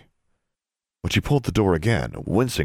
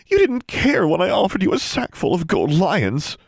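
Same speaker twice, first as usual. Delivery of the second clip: put-on high, louder resentful girl; 14 semitones higher, 5 dB louder than usual. A narrator's reading. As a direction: throw it back at him bitterly. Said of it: "Darla's voice was resentful".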